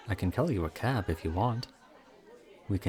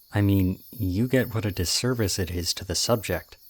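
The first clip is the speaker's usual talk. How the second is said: intense. Acted. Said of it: "that got intense".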